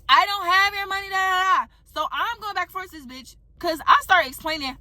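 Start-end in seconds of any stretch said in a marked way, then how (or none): 0.1-1.6 high dismissive mock voice; mocking denial. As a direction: brush it off in a high mimicking tone.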